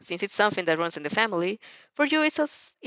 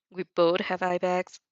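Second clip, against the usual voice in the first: slow, dry deadpan line; slower than usual. Acted. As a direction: drop it dead dry, no smile. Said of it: "Shinzo deadpans".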